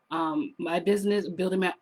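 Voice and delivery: hoarse, losing her voice; a voice going hoarse. Real, not acted. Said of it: "I'm losing my voice a little bit".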